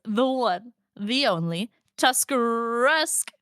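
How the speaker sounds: slow, drawn-out guest name with a rising finish; announcer build-up. Acted. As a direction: introduce the guest like a ring announcer. Host announcing the special guest.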